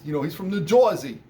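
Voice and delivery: lightly mock a New Jersey guy; New Jersey accent. Shown as a demonstration. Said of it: "my horrible attempt at a New Jersey accent".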